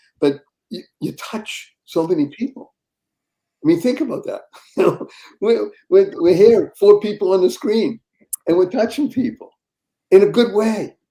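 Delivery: emotional, tearful, crying voice. On screen with others, praising someone's enthusiasm, speaking while crying. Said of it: "I'm crying right now".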